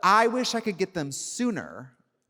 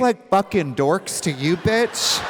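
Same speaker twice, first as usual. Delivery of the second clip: loud, higher-pitched indignant challenge; mock outrage; 4 semitones higher, 4 dB louder than usual. Host confronting co-host over being called dorks, mock outrage. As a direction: act affronted, voice raised.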